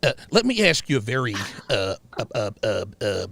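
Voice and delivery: a hint of country-boy date; white guy from Mississippi. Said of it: "let's say I was a white guy".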